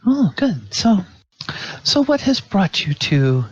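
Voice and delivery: high, fast and honeyed hostess voice; Morgana. Acted. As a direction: charm the new guest warmly. Morgana chats with guest.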